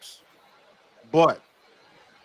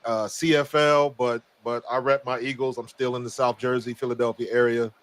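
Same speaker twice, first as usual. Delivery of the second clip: worn-out raspy voice; nearly voiceless, rasping; hoarse voice; 3 semitones lower than usual. Real, not acted. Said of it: "I have little to no voice left".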